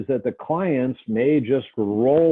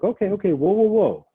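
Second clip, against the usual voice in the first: calming the client; 9 semitones higher than usual. Shown as a demonstration. Counsellor calming angry client.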